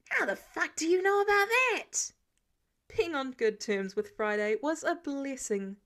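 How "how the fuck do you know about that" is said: much higher, louder shocked yell; high indignant shriek of disbelief; outraged shout. Acted. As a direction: blurt it out, stunned and furious. Caught out, outraged.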